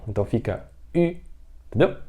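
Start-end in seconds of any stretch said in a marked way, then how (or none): 0.9-1.2 "ü" as an i said with rounded lips; "ü" with pursed lips; ü with a pout. Shown as a demonstration. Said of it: "só que com biquinho". ("ü" som de i com biquinho)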